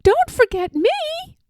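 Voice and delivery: high, loud desperate call; the dog crying out to his mistress; barking call. Acted. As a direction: bark out her name as she's led away. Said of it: "I barked".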